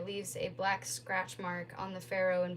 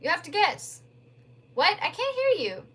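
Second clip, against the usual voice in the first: raised voice on a noisy phone line; shouting down the phone from a loud restaurant; shouting over noise; 9 semitones higher, 8 dB louder than usual. Acted. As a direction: call it out over restaurant din.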